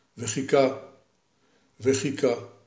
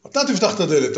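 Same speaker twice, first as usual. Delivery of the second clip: insistent; 5 semitones higher, 3 dB louder, faster than usual. Acted. Hero and giant bickering.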